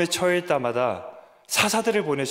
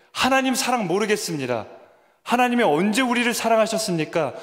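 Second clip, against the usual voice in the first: hurtful challenging question; 6 semitones higher than usual. Retold or imitated. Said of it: "그렇게 대목받는 질문을 하니까".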